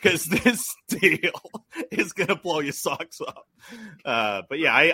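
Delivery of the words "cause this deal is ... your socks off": slow, laughing ad-read hype; hammed-up pitchman. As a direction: sell it like a cheesy TV pitchman through laughter. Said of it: "he'd be like".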